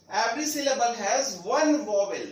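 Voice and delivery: slow, spaced-out line with weight on "one"; slow rule reading, "one" stressed. Shown as a demonstration. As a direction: lean firmly on the word "one", teaching slowly. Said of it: "ध्यान दीजिएगा, वन".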